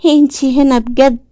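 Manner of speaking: put-on high excited child, then a breathy whisper; a boy stunned to see his mother; the child gasps out his hope; eager disbelief. A narrator's reading. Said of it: "بلهفة كبيرة وعدم تصديق".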